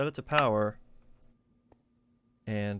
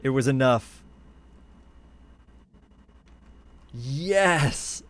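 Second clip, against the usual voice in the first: much louder, higher cheering "Yes!"; triumphant shout; 5 semitones higher, 6 dB louder, much slower than usual. Real, not acted. Streamer cheering as the reactor finally ignites, real triumphant shout. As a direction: burst out in real victory.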